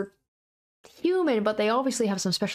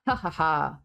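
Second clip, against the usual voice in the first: laugh out. Acted. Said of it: "I laugh out".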